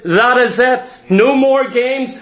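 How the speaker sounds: firm, final command; authoritative. Acted. Preacher shows the voice a dog obeys, authoritative. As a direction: lay down the law with authority. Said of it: "an authoritative voice that says".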